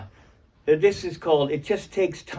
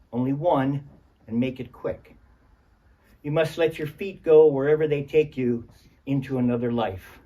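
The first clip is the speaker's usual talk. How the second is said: poetry reading; 3 semitones higher than usual. Acted. Reads last chapbook poem.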